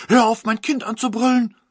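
high, loud angry yell; mother shouting. A narrator's reading. The mother yells at the godmother, high and loud. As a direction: yell back to protect the child. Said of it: "rief die Mutter".

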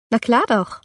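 put-on shy girl barely managing an answer; stammered reply. A narrator's reading. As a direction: get it out haltingly, flustered. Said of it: "kann ich gerade noch hervorstammeln".

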